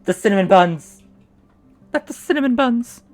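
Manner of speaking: loud hammy vow of vengeance; melodramatic outrage. Pretend. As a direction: shout it like a stage hero. Mock outrage at stolen buns.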